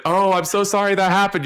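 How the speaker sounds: high, gushing condolence; mock sympathy. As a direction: put on an over-nice sorry. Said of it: "if you were nice about it".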